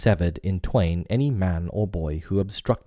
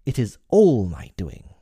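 stern; 3 semitones higher, 4 dB louder than usual. Acted. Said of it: "came the stern answer".

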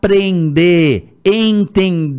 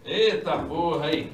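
muttered curse, very soft; cursing under breath; 8 dB quieter than usual. Real, not acted. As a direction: swear quietly to yourself. Mic failing mid-recording.

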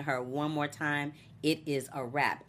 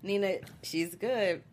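impressed aside; 4 semitones higher, slower than usual. Retold or imitated. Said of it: "I was like".

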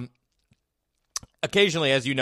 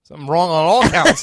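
laughing; 4 semitones higher, 10 dB louder than usual. Real, not acted. Laughing at the age gap.

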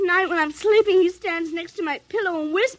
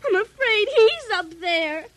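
frightened; 3 semitones higher than usual. Acted. Frightened child fearing the doll.

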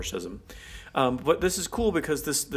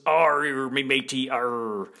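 pirate accent; slower than usual. Shown as a demonstration. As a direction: play the stereotypical pirate. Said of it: "the stereotype of the pirate accent".

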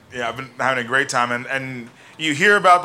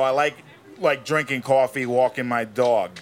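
slowed-down New York accent; 2 semitones lower than usual. Shown as a demonstration. Second step of Walken tutorial, slowed New York accent. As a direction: stretch out those New York words. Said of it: "slowing it down".

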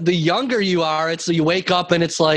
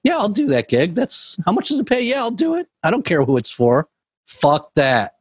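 higher-pitched mock eagerness; eager gig-taker; 4 semitones higher than usual. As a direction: play someone jumping at any paid gig. Voicing people with no morals.

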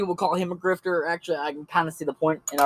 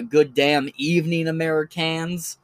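lightly put-on accent, last word drawn out; slower than usual. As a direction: slip into a slight mock accent for the greeting. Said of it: "I don't know why I keep doing that accent".

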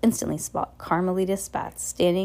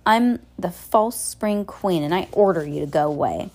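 put-on obnoxious girl's voice. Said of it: "in an obnoxious voice".

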